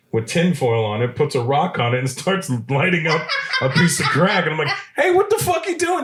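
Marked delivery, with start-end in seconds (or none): 5.0-6.0 shocked yell. Retold or imitated. Shocked at crack in his car.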